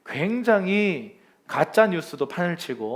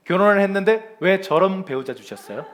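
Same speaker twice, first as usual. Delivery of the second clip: louder, aggrieved protest to God; play-acted grumbling, pushed louder; mock complaint; 2 semitones higher, 5 dB louder than usual. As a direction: complain in comic exasperation. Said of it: "그러면서 불평불만을 하는 거예요".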